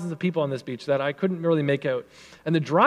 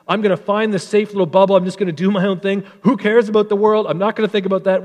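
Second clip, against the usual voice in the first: mock retreating voice; 3 semitones higher, 4 dB louder than usual. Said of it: "they're like".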